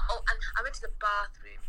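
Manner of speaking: mock London accent with a broad "bathroom"; imitated London accent. Teasing co-host with a London phrase, mock London accent. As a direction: put on a Londoner's vowels. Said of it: "all I know that you guys say".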